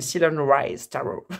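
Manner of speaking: English deck name in a French accent. Real, not acted. Tarot reader naming her deck to viewers, French-accented English. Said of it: "Avec mon accent".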